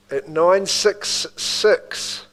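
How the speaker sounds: nine six six drawn out slowly in a Kiwi accent. Real, not acted. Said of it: "Did I say that in my Kiwi accent a bit much?".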